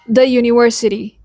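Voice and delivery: "the" as "thuh" before "university"; consonant form. Shown as a demonstration. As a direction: say "the university" with a short, neutral "the". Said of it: "before consonant sounds".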